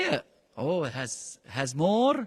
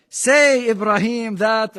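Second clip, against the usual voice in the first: higher, louder mock order to himself; mock self-command; 5 semitones higher, 9 dB louder, slower than usual. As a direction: playfully order yourself around. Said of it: "you're not gonna say".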